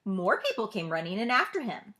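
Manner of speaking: ordinary delivery, nothing marked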